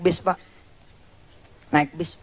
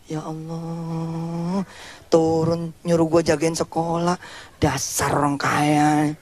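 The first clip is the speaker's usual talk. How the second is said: put-on slow, hushed grumble of a hurt boy; bitter lament; 3 dB quieter, slower than usual. The boy left behind mutters to himself, slow hurt lament.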